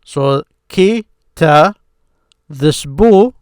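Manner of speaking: ki, ta, bu spaced out one by one; teacher sounding out syllables. Shown as a demonstration. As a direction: break the word into its beats. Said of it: "I put 'em together".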